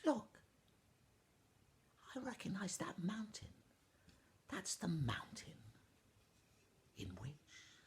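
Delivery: high hushed princess; breathy whispered wonder from a girl. Acted. Princess whispering to the ash boy, high and hushed. Princess recognises woven mountain.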